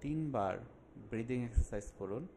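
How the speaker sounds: measured instructions with long pauses; unhurried meditation guide, phrase by phrase; guided relaxation. Acted. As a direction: calmly guide the listener into a breathing exercise.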